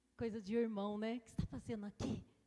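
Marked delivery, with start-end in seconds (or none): 1.2-2.2 put-on hushed voice, lower and quieter. Retelling what the brothers said to David: imitating them speaking softly. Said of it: "Imagine eles falando baixinho".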